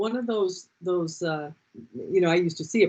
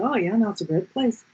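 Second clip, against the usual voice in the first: lightly pretended Dublin accent; Irish accent; 3 semitones higher than usual. Teacher fooling her pupils about Dublin, mock Irish accent. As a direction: answer with a put-on hint of Irish. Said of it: "I'd pretend I was from Dublin".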